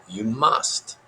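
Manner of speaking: lightly voiced little sage, rising at the end; Yoda puppet voice. A narrator's reading. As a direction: insist calmly as an odd puppet creature.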